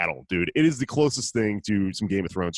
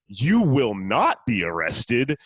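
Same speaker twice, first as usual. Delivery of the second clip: mock police order; 2 semitones higher, slower than usual. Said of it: "this is how they say it".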